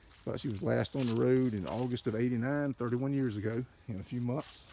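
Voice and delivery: breathless from excitement; out of breath. Real, not acted. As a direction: talk while short of breath. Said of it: "I'm out of breath".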